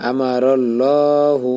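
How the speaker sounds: slow, drawn-out recited word; Quran recitation. Shown as a demonstration. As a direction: chant it slowly with the long vowel. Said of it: "এখানে এক আলিফ টান". (ধীরে টেনে তিলাওয়াত)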